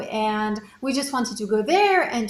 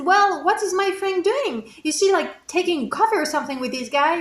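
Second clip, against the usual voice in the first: impatient complaining; 5 semitones higher than usual. Retold or imitated. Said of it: "more crazy".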